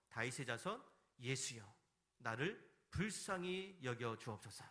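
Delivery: slow, mild imitation of a beggar calling out; lightly acted drawn-out appeal; imitated crying out. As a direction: retell the plea as a measured cry for mercy. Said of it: "이게 바로 바디메오의 부르짖음입니다".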